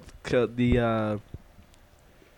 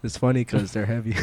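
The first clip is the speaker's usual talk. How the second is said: laughing dad quote; 3 semitones lower, 3 dB quieter than usual. Retold or imitated. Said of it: "he, like, leans over".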